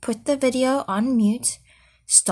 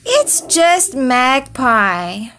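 groaning; 5 dB louder, slower than usual. Acted. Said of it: "groaned Foal".

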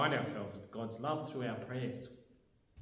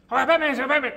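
puppet voice; 13 semitones higher, 17 dB louder than usual. Acted. Puppet answers the Batman call.

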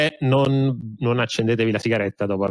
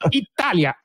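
high, booming Istituto Luce announcer; old newsreel; 9 semitones higher than usual. Pretend. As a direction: proclaim it like a 1930s newsreel. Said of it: "bisogna dirlo però in tono".

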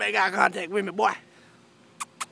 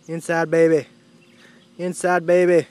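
loud command; 4 semitones lower, 6 dB louder than usual. Real, not acted.

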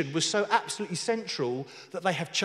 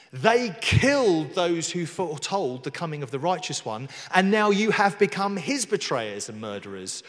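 emphatic preacher's denunciation; forceful scripture reading; 3 dB louder than usual. Acted. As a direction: press each accusation home. Reads Stephen's accusing speech.

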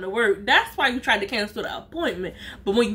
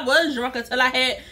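laughing quote. Retold or imitated.

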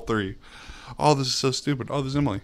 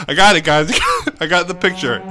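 loud, higher, triumphant outburst; excited triumph; 6 semitones higher, 9 dB louder, much faster than usual. Real, not acted. Gamer telling guys he got the picture, excited yell. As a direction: shout your win to your friends.

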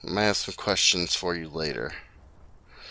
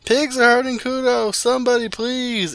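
screaming for help. Acted. Child begging neighbours to save Kuno, screaming. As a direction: beg the whole street at full blast.

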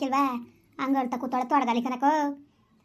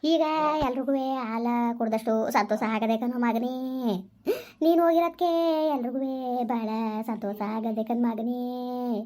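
slow, sobbing keen over her lost son; drawn-out tearful wail; wailing lament. Acted. Grandmother wails over jailed son.

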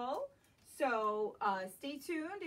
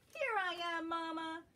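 higher, bright little cub voice; Baby Bear; 5 semitones higher than usual. Acted. Baby Bear revealing his hiding spot to Mama, higher playful. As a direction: pop out cheerfully from hiding. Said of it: "says Baby Bear".

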